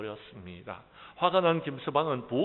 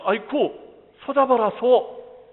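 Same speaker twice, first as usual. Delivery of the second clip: calling out; 11 semitones higher, 13 dB louder, slower than usual. Acted. Calling family to catch ox.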